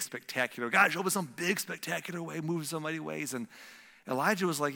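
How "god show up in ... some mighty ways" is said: higher, louder eager plea; pleading prayer. Retold or imitated. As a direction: beg God for something big. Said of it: "we all want to see God show up".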